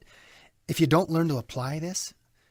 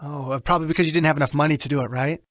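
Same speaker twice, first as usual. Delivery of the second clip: telemarketer voice; faster than usual. Shown as a demonstration. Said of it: "Mechanical. Telemarketer-ish".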